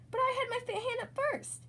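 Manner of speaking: protest. A narrator's reading. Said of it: "said Pam".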